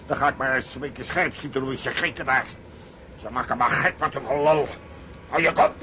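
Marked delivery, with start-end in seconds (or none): 5.3-5.7 high, loud bellow; drunken yell. Acted. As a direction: roar at them to shut up. Drunk man yells at neighbours. (dronken schreeuwen, hoog en luid)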